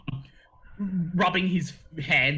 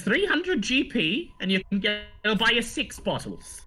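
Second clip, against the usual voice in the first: gnome shopkeeper; 6 semitones higher than usual. Acted. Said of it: "He says".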